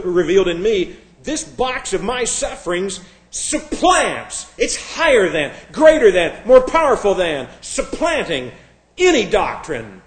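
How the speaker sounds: loud, emphatic proclamation in a sufferer's voice; mock declaration. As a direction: declare it forcefully, as an imagined sufferer. Quoting a sufferer's boastful declaration.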